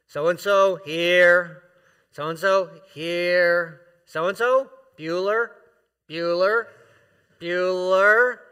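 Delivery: slow, loud, drawn-out roll call. Pretend. Mock teacher calling the roll to the congregation, loud and slow. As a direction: boom out each name like a teacher taking attendance. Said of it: "as if he's calling the roll".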